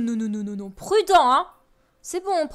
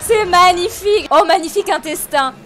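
sarcastic awe; 6 dB louder than usual. Real, not acted. Gamer mocking the gore with fake wonder. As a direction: gush ironically over gore.

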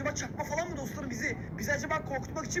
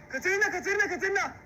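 calling her name; 4 semitones higher, 4 dB louder than usual. Acted. Calling Katerina on arrival.

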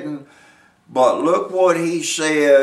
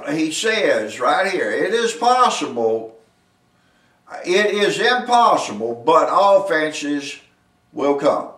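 raised, deliberate verse exposition; emphatic preaching; 4 semitones higher, 5 dB louder, slower than usual. Real, not acted. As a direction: hammer out each phrase with pauses between.

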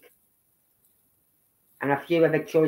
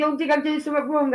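little grandson; 9 semitones higher, faster than usual. Retold or imitated. Grandson voiced in retold chat.

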